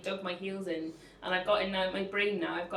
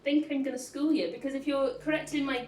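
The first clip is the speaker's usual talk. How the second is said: defiant; 2 semitones higher than usual. Retold or imitated. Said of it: "So I'm like".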